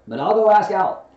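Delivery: high, loud and eager; busy Rabbit. A narrator's reading. Rabbit rushes off to ask Owl, high and brisk. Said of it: "said Rabbit".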